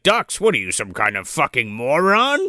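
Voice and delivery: exasperated acted quote, rising at the end; incredulous mock insult. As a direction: scoff it as if at an idiot. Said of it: "He's like, he's like".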